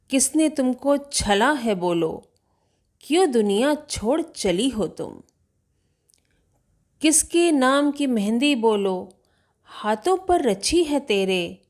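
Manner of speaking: measured, lilting verse with pauses between lines; lightly performed poetic questioning; poem recitation. Acted. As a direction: recite as a poet gently questioning a stranger. Recites poet questioning the dead girl.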